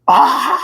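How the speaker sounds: high, drawn-out cry of shock; imitated anguished scream. Husband whose wife suddenly died at night, screaming in shock. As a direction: act out a grief-struck wail. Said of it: "하고 소리 지르고 있다".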